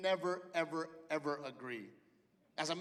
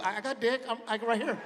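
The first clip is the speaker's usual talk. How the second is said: eager husband; 5 semitones higher, 5 dB louder than usual. Retold or imitated.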